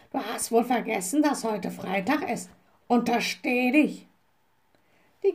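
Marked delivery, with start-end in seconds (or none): 0.1-4.1 scolding raven voice; Abraxas. A narrator's reading. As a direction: warn sternly as the raven. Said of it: "rief Abraxas dazwischen". (mahnende Rabenstimme)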